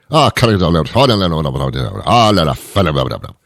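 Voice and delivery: mock Latino gibberish rant, rapid babble; comic Latino-accented outburst of nonsense; upset Latino rant. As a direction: break into pretend Latino babble when upset. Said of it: "They break into something else".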